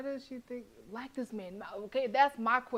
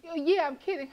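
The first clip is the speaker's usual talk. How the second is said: higher, louder sarcastic mimicry; mocking voice; 6 semitones higher, 6 dB louder than usual. Player mocking the friends who doubt Belle, sarcastic. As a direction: parody the friends brushing her off.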